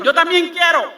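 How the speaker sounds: high, loud mocking whine of a copycat; mock eager disciple. Preacher mocking copycat disciples, eager high voice. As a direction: squeal it like a tagalong.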